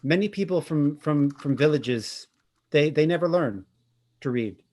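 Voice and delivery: just a hint of a French accent, don't overdo it; touch of French accent. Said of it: "like, a touch of, like, a French accent".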